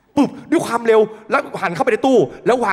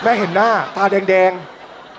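usual speaking voice

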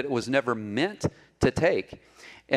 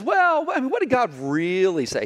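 sly serpent; 8 semitones higher than usual. Acted. Serpent voiced in sermon story.

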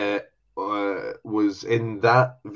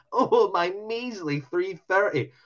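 mopey imitation; 9 semitones higher, slower than usual. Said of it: "and you're like".

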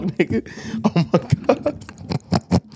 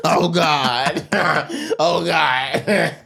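breathless after laughing hard; wheezing out of a laughing fit; 4 semitones higher, much slower than usual. Real, not acted.

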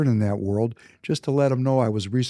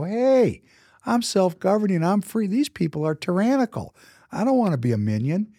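defiant declaration; 8 semitones higher than usual. Retold or imitated. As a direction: announce your independence like a revelation. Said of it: "and go".

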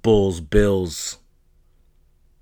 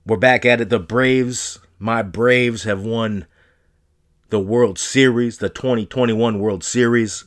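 excited; 3 semitones higher, 4 dB louder than usual. Real, not acted. Celebrating Braves World Series win.

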